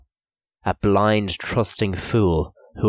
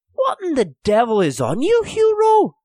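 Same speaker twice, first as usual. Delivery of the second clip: alarmed; 4 dB louder than usual. Acted. Boys trapped, alarmed question.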